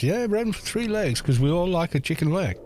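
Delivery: bad rural American accent, matter-of-fact; awful American accent. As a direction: play the American farmer with a put-on twang. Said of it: "I'm doing, like, a awful American accent".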